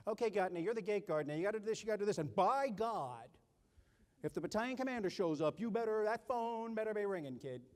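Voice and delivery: a hint of a barking sergeant; stern sergeant. Sergeant giving the guard orders.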